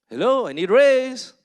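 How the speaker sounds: loud, high cheeky call for a raise; mock bold demand. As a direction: ring them up and belt it out. Calling agency demanding raise.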